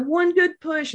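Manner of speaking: high, slow, encouraging praise; encouraging doctor. Retold or imitated. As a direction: coax her along gently but brightly. Doctor urging final push.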